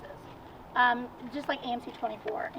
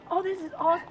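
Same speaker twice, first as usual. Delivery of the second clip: excited; 7 semitones higher, 3 dB louder, faster than usual. Retold or imitated. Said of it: "I was so excited".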